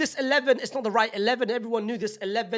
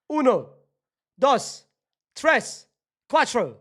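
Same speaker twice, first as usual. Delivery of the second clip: each number punched a touch louder; gloating count in Spanish; 4 dB louder, much slower than usual. Pretend. Madrid fan counting goals for Spanish fans, gloating. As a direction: rub it in, one by one. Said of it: "For my Spanish audiences".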